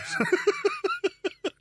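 high laugh at own bit. Real, not acted. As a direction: crack up at your own joke. Laughs at own imagined row.

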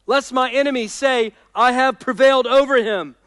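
high, loud sermon voice; impassioned preaching. Acted. Preacher asking the congregation if darkness ever crushed them, impassioned. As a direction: preach it with weight on key words. Declaims the psalm.

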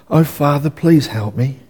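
a limp mock plea trailing away; feeble whimper. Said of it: "That's a whimper".

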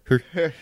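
"Whore." clipped to a rising "hoo"; showing how short "Whore." gets; shortest whore. Shown as a demonstration. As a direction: cut the word as short as it goes. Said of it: "how short can you make the word".

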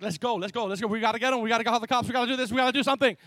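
mildly heated, urgent rallying; retold angry urgency. Friend urges the car owner to act, retold angry urgency. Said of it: "I'm more angry than he is".

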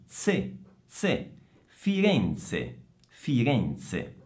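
ZE alone as ts, then FIRENZE; Z as in pizza. Shown as a demonstration. Teacher isolates the Z for students, ts in FIRENZE. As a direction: drill ZE before the full FIRENZE. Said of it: "è la stessa Z di pizza".

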